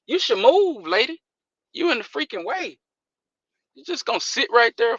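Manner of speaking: yelling at a driver in the way; loud irritated road rage shout; dad stuck in traffic. Real, not acted.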